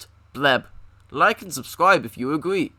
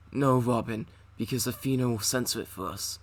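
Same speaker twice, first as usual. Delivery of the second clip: Batman voice; 4 semitones lower, 6 dB quieter than usual. Acted. Batman voice reply.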